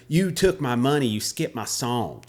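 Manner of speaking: lightly twangy complaint, drawn out at the end; mock twangy whine of accusation; exaggerated twangy girl. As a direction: imitate an indignant bar girl's twang. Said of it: "This is exactly how she sounded".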